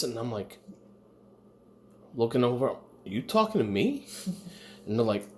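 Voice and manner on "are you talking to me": lightly voiced tough-guy challenge; a hint of Brooklyn, rising at the end; De Niro. Tired diner answering a stranger, a touch of De Niro. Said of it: "I sounded like fucking De Niro".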